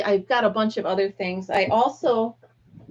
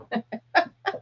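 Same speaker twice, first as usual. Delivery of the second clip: laugh; 2 semitones higher, 4 dB quieter than usual. Real, not acted. Laughing at the retold reaction.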